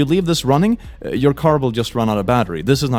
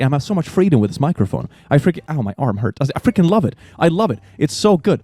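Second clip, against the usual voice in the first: mock an empowered quirky influencer; boss babe. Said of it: "empowered, quirky boss babe".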